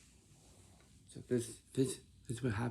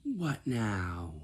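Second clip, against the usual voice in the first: exasperated; 5 dB louder than usual. Retold or imitated. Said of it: "she says in this tone".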